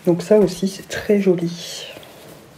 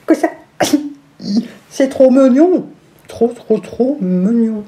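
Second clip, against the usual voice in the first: gushing; 5 semitones higher, slower than usual. Real, not acted. Gushing over cute socks.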